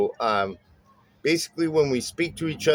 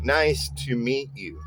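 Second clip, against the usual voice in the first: "Nice to meet you" with NICE and MEET stressed; even strong-weak beats on "Nice to meet you"; trochaic rhythm. Shown as a demonstration. Bass teacher showing trochees, stressed-unstressed rhythm on "Nice to meet you". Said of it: "stressed syllable followed by an unstressed syllable".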